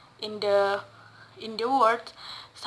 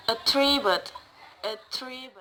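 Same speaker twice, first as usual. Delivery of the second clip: attribute with TRI stressed; stress on second syllable. Shown as a demonstration. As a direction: lean on the middle of attribute, at-TRI-bute. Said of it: "stress falls on the second syllables".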